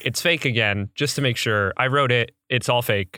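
Orson Welles impression. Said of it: "Orson Welles being like".

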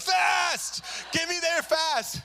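a frantic cry to hurry; desperate shout. Retold or imitated. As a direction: beg the driver at full volume. Desperate patient yelling at driver.

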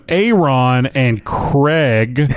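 "Aaron" as AY-RON, "Craig" as KREGG, drawn out; misspelled names pronounced. Retold or imitated. Host reads listener's misspelt names, slowly as AY-RON and KREGG. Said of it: "He spells it A Y dash Ron".

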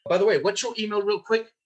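offhand quick ask; casual sales tonality. Shown as a demonstration. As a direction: toss it off as no big deal.

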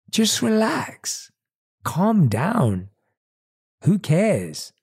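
a lazy inner voice lulling you to give up; tempting inner voice. Acted.

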